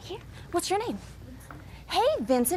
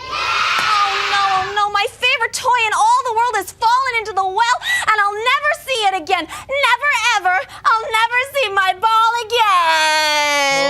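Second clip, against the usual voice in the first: hammed-up wail; 4 semitones higher than usual. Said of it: "Now I have to cry".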